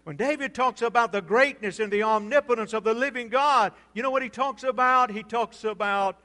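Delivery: loud, driving pulpit delivery; loud sermon build-up; forceful preaching. Real, not acted.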